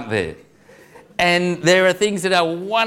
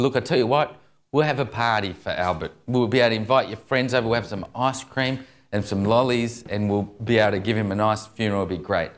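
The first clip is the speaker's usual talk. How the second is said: lightly acted, lower-pitched coaxing; soothing dad; 4 semitones lower than usual. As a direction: cheer up a crying child, gently. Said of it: "he was trying to smooth things over".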